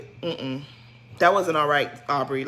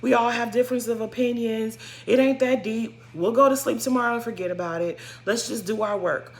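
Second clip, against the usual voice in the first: breezy brush-off; 3 semitones higher than usual. Shown as a demonstration. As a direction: show how she should have laughed it off. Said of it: "Why you couldn't just say".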